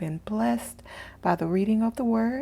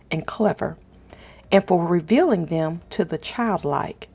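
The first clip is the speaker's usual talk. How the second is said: scripture reading. Acted. Host reads Matthew aloud to her viewers, reverent scripture reading. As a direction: read each verse with calm reverence, pausing between lines.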